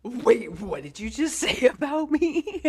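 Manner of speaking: mock offended. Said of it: "Just like".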